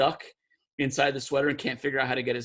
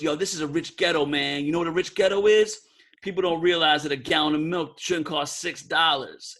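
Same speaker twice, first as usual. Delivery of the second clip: put-on New York accent. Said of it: "he goes".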